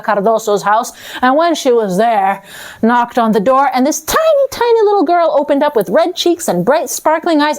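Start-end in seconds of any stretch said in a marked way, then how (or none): 3.7-7.6 tiny, tiny, said sweet and high; cutesy high narration. A narrator's reading. Narrator gushing over the little girl, high and sweet.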